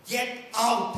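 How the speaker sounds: loud, brisk command from a teacher; stern order. Retold or imitated. Professor to student entering class late, stern command. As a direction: order him out with some force.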